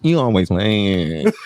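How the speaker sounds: slow, drawn-out playful tease; coy teasing.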